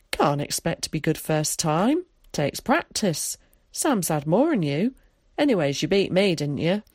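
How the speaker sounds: lightly voiced countryman, consoling; Tom. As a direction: console a child with a touch of rural dialect.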